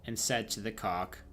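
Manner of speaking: steady storybook reading voice; story narration. A narrator's reading. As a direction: read the tale aloud to the viewers. Streamer reads second tale aloud.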